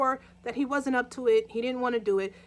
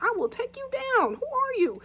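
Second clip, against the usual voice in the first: threatening; 11 semitones higher than usual. Retold or imitated. Husband threatens the intruder.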